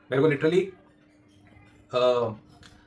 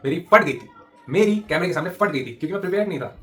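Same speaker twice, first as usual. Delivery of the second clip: confessing; 4 semitones higher, 4 dB louder than usual. Real, not acted. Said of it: "चलो बोल देता हूँ".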